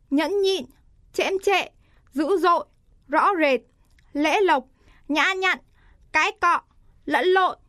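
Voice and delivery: each word pair said high and carefully, tones marked; ngã and nặng tone demo. Shown as a demonstration. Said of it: "Dấu ngã đi với dấu nặng".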